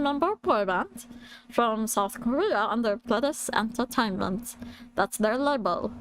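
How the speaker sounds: lightly attempted British creature voice; Stitch. Lecturer introducing the band as British Stitch, half-managed. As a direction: play a little alien who studied in Britain. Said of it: "imagine Stitch being a short seventeen stan after studying in Britain".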